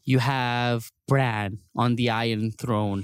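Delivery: mock-dreamy, savoring each word. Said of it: "saying it in that tone of voice".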